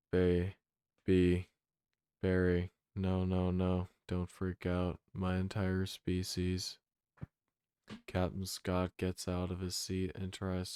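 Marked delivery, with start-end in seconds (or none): 0.1-6.8 louder, urgent plea that fades as it goes; panicked pleading. Acted. Barry begging the freaked-out captain, louder panicked pleading. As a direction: blurt it out in a rush of panic, then settle.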